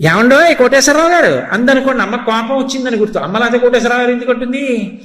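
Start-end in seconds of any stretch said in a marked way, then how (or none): 0.1-1.5 mock respectful scolding. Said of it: "అమ్మకి చాలా కోపం వచ్చేసింది".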